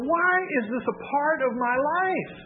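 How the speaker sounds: a light imitation of someone complaining to God; plaintive complaint. Imagined complaint about burdens.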